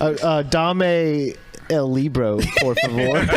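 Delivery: slow, laughing schoolbook Spanish; laughing Spanish attempt. Shown as a demonstration. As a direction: say it haltingly through laughter. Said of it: "Tell me something in Spanish".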